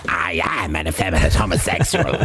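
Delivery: mannered, effeminate character voice; John Hurt. Retold or imitated. Host imitating the actor he associates with that line, effeminate voice. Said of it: "John Hurt, I always associate with".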